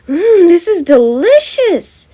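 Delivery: high, slow, savoring voice; delighted Lizzie. Acted. Lizzie tasting the cake, high and delighted. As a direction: marvel at the taste, drawn out.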